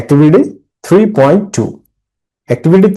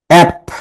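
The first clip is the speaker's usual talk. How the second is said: অ্যাপ punched out alone, higher; stressed syllable; 4 semitones higher than usual. Shown as a demonstration. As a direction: say অ্যাপ as one isolated stressed beat. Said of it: "যখন তুমি বলবে যে".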